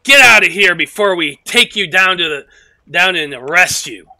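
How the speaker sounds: loud stern threat; threatening guard. Acted. Spearman threatening the drunk, loud and stern. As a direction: warn him off hard.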